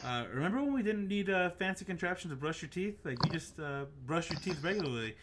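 lightly hammed sponsor-spot delivery; mock ad read. Podcast host reading a joke ad for brushing teeth, mock ad read. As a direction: read it like a tongue-in-cheek sponsor message.

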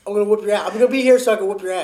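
mock Goku taunt. Friend mock-quotes Goku, louder.

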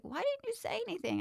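high, quick, imitating the mother; mother's question. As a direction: mimic the upset mom asking fast. Mother scolding the child.

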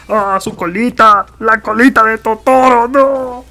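loud, high cry of dismay as the tail falls off; real shout of alarm, pitch way up. Real, not acted. (grito alarmado y agudo porque se le cayó la colita)

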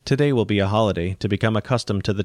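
mild, calm robot teacher; gentle. Acted. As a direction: break the news gently and evenly. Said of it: "The robot's voice said gently".

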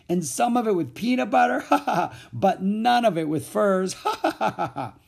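high, loud glee with guffaws; uproarious high taunting; ringing laughter. A narrator's reading. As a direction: holler each item, then roar laughing. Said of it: "With Mac's laughter ringing in their ears".

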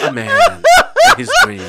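high squeaky parody of trailer line; hammed-up high trailer tagline; mock trailer voice. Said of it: "a piada assim, tipo". (voz de trailer aguda)

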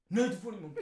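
mock stern father refusing, with a laugh; angry-sounding dad. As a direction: play a father who sounds angry, lightly. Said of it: "han har sån här röst".

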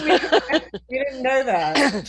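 high, loud, laughing mock innocence. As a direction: play the clueless parent while laughing.

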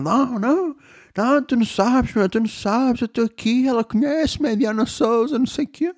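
very high, whining protest; whiny drunk teen. Retold or imitated. The teen refuses to give up on the girl, whining high. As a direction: whine it up high like a stubborn kid. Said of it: "E ele".

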